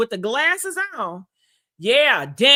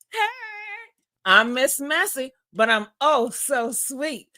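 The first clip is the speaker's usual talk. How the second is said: sassy slogan; slower than usual. Shown as a demonstration.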